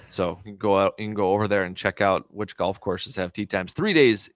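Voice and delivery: lightly put-on radio DJ ad read. Shown as a demonstration. Host plugging tee times to listeners, radio DJ voice. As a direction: plug it like a radio DJ. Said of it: "that was radio D J voice there".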